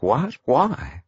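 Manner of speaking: a touch of shocked disbelief. A narrator's reading. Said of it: "replied with equal shock".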